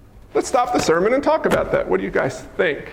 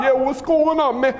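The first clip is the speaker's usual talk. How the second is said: casual disciple reply; 4 semitones higher than usual. Acted. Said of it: "They said like this".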